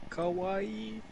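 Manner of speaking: high cutesy kawaii; anime fan. Pretend.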